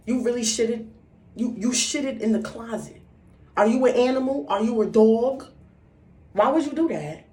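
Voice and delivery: high loud appalled mom; disgusted mother. Retold or imitated. Mother disgusted at daughter in closet, loud high scolding. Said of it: "she just looking at me like".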